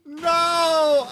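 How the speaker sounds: high-pitched shout of protest. Real, not acted. Streamer shouting at a teammate, high and loud. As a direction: cry out stop in shock.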